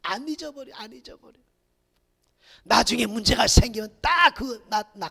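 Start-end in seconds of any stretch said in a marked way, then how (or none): none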